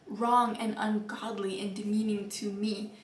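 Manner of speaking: hushed, breathy disapproval; whispered. Retold or imitated. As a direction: whisper it like a shocked confession. Retelling her protest to mom.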